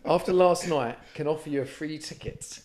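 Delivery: measured message read-out, punctuation spoken; reading out own text. Retold or imitated. Reading a ticket offer to co-hosts, measured read-out. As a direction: read the text aloud, lifting the questions. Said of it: "So here's what I've put".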